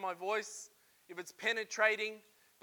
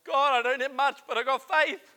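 loud, raised prayer of faith; declaring faith to God; 5 semitones higher, 10 dB louder than usual. Retold or imitated. Preacher retelling his prayer on the bed, loud. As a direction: cry it out to God. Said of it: "I'm going".

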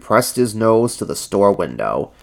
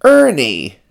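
higher, louder hailing shout; raised-voice greeting, falling at the end; shouted call; 6 semitones higher, 5 dB louder than usual. A narrator's reading. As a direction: call out to a friend. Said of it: "shouted Big Bird".

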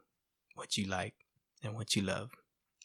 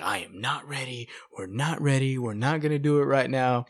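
wife flipping out; 3 semitones higher, 4 dB louder than usual. Retold or imitated. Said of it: "So she was flipping out".

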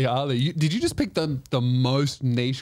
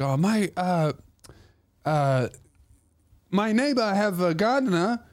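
hesitant, lightly imitated Chinese accent; halting Chinese-accented English; 4 semitones higher than usual. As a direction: mimic a Chinese lady's accent, searching for words. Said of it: "do the accent for that story".

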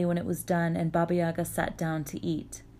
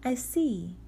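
put-on young girl voice; 6 semitones higher than usual. Vasilisa replies.

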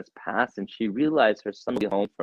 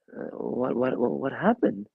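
shocked stammer; 4 semitones higher, slower than usual. Acted. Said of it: "She's shocked".

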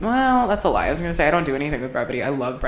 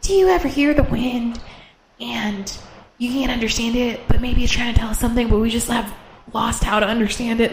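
dreamy reel voice; 4 semitones higher than usual. Retold or imitated. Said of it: "it's like".

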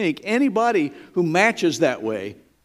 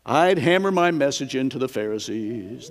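quoting John the Baptizer; 3 semitones lower than usual. Retold or imitated. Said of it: "His words were like".

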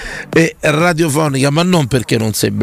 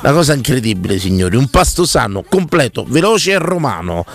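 ad read. Acted. Host reads live restaurant ad.

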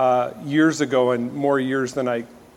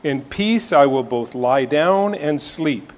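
measured reading of a psalm; scripture reading. Acted. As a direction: read the psalm aloud with reverence. Reads Psalm four aloud.

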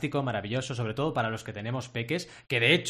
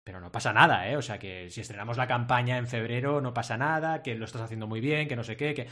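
softened reassurance; 2 semitones lower than usual. Retold or imitated. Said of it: "lo suavicé".

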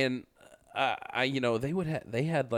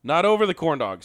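louder, higher protest; 7 semitones higher, 8 dB louder than usual. Real, not acted. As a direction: call it out in protest. Protests loudly, repeated after.

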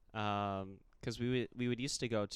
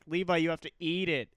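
put-on older cousin; 6 semitones higher, 8 dB louder than usual. Older cousin voiced in story.

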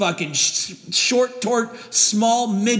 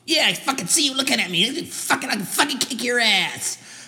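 mock gym bro challenge; 4 semitones higher than usual. Skit bro picks a fight.

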